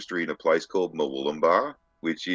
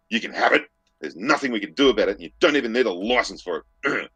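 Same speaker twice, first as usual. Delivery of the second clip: higher, louder dismissive quote; imitated woman with attitude; 5 semitones higher, 4 dB louder than usual. He imitates the registry woman calling back, mock dismissive attitude. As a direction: mimic her attitude, pitched up and pushed out quickly. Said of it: "it's the attitude in her voice that says it all".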